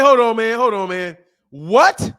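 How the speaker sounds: loud, disbelieving hold on man; loud incredulous hold on. Retold or imitated. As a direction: bark hold on at a con man. Retold reaction to whispering hustler.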